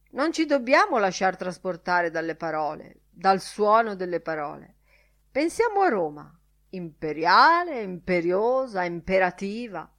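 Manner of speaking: lightly voiced professor holding forth; a touch of lecture-hall oratory; orating professor. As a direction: hold forth with loud, punched key words.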